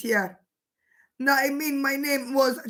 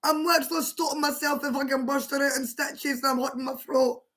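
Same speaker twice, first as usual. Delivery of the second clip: 1 holding back laughter; 5 dB quieter, faster than usual. Real, not acted. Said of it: "it's hard to contain myself".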